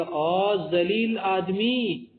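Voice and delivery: slow, drawn-out scolding insult; a mock rebuke, slowly. Shown as a demonstration. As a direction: sneer it like calling someone a scoundrel. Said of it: "آپ نے کسی کو گالی دیا".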